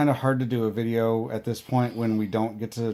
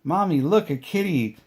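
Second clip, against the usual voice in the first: put-on little girl; 5 semitones higher than usual. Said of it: "our middle daughter goes".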